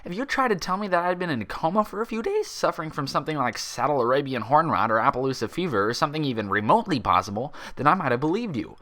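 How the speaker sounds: a sharp, disbelieving unicorn insisting she's sane; Twilight's voice. Acted.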